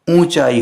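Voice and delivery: "ऊंचाई" with nasal oo and no n; correct pronunciation. Shown as a demonstration. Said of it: "शुद्ध क्या हुआ?".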